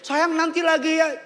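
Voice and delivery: high-pitched imitation of the wife; eager coaxing. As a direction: sweet-talk him into another ride. Acts wife asking for another ride.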